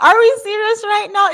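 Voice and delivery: cracking up in disbelief; laughing. Real, not acted. Repeated through laughter.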